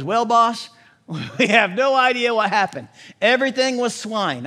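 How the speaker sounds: a hint of a sheepish farmhand owning up; nervous pig herder. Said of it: "where the pig herder goes".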